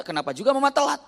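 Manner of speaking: high, fast mock scolding; husband scolding his late wife, fast and high. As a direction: snap it out quickly.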